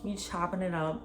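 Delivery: casual, easygoing retold chat; playing it cool. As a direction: act like nothing is up. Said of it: "So I'm still playing it cool".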